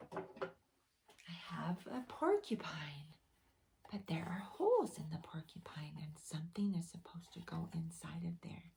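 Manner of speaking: hushed secret hint; whisper. Acted. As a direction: tease the kids with a whispered clue.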